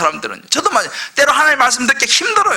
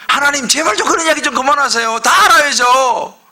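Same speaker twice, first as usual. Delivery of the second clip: mock exasperated plea rising to a louder snap; hammed-up fed-up child, louder at the end; annoyed complaint; 3 semitones higher, 4 dB louder than usual. Preacher voicing Israel fed up with God, mock exasperated. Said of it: "이스라엘 백성들이 어떻게 생각하냐면".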